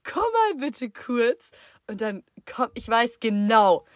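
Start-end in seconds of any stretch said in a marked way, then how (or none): 0.0-1.5 mum's calling tone. Retold or imitated. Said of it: "sie sagt dann immer so".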